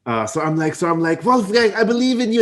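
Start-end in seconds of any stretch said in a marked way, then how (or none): 1.2-2.4 tender plea. Acted. Player voices romantic plea to Wolfgang.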